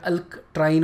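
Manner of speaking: "अल्कट्राइन" with the consonants run together; awkward k-to-tr join in "अल्कट्राइन"; no linking vowel. Shown as a demonstration. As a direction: say "अल्कट्राइन" with no "a" after the k. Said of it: "अच्छा नहीं लगता".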